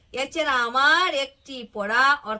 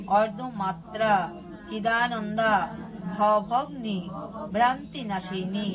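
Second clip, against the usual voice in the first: litany of names; 3 semitones lower than usual. Acted. Preacher reciting the Gita's names for devotees to repeat. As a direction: give each sacred name its own weight.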